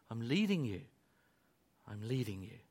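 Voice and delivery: low voice, softening on the repeat; gentle reassurance. Acted. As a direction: reassure quietly, as a shepherd to his sheep. Voices the Good Shepherd reassuring sheep.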